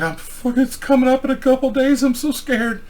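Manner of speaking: high, soft mock crying voice; imitated tearful whine. Girlfriend frightened before surgery, imitated high whimpering. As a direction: whimper it lightly, pitched well up. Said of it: "she started crying".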